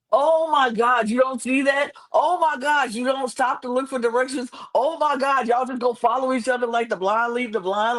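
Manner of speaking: high-pitched, exasperated mock yell. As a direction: wail it at clueless people on screen. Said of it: "I screamed that eight times in a row".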